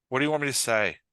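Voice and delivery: mildly resigned question on a falling tune; understated weary resignation; said with a sigh. Shown as a demonstration. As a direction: let the line out after a sigh. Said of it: "David said with a sigh".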